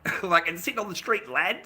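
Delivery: imitated Irish lad; playful Irish lilt; Irish accent. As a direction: put on a light Irish accent. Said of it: "Fucking, this accent, right?".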